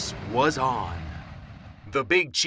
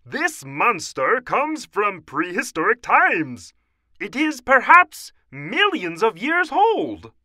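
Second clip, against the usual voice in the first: high, loud lecturing scientist; dramatic, high-pitched professor; Professor O'Hare; 8 semitones higher, 7 dB louder than usual. A narrator's reading. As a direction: declaim it to the emergency meeting. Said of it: "said Professor O'Hare".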